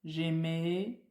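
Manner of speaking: j'aimais said alone with a rise; teacher model. Shown as a demonstration. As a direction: repeat j'aimais carefully for pupils. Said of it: "on dit j'aimais".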